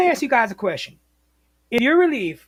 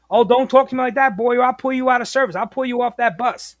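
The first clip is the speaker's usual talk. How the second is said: mildly raised mock threat; threatening dispatcher; 3 semitones higher, 3 dB louder than usual. Dispatcher threatens to pull driver from service, mock angry warning. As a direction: imitate an indignant boss warning a driver.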